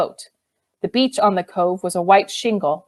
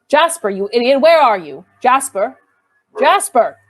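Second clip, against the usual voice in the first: calling out; 4 semitones higher, 5 dB louder than usual. Acted. Calling the lost dog.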